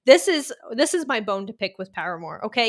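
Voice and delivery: worked-up rant with a Boston accent. Real, not acted. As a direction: let the Boston accent slip out while ranting. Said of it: "you got so worked up right there, and I heard your Boston accent come out".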